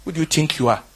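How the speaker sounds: the friend's loud shout to stop the crowd; retold shout. Pastor stops the crowd leaving the concert, with a loud shout. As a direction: bark it like a pastor halting the crowd. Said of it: "he says".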